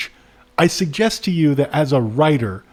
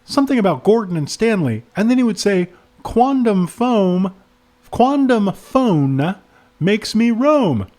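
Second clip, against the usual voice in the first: higher voice, slowing for the rhyme; witness recounting rhymes; 6 semitones higher than usual. Acted. Witness quoting the babbling man to the cop, higher voice. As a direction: pitch it up and draw out the rhyme. Reads the witness's answer aloud.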